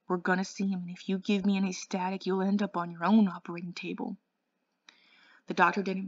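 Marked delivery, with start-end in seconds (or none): 0.1-4.2 shaking threat. Acted. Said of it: "His voice was shaking".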